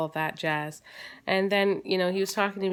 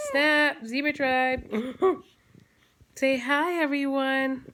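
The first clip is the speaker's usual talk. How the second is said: high, playful cooing; 7 semitones higher, slower than usual. Real, not acted. Mother cooing at baby.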